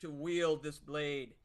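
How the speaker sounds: a buff minstrel, lightly voiced, swaggering; bold minstrel hero. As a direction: claim the blade proudly. Player voices Warrant Truenote.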